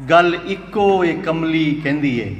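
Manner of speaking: slow, measured verse with held syllables; poetry recital. Acted. Poet reciting Punjabi verse to a mushaira audience, slow recital. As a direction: declaim each phrase slowly, pausing between them.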